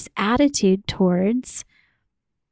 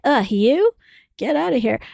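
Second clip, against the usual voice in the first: disgusted othering; 4 semitones higher than usual. Shown as a demonstration. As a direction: shoo the feeling away with disdain. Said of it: "That's othering".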